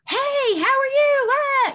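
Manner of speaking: high, loud party hello; loud party greeting. Retold or imitated. Mimicking a loud guest at a party, high and loud. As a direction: belt it out over party noise. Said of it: "getting really loud".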